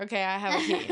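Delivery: "I have a key" stated firmly and deliberately; playfully emphatic. Real, not acted. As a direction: make "I have a key" perfectly clear. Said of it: "Let's just make that clear".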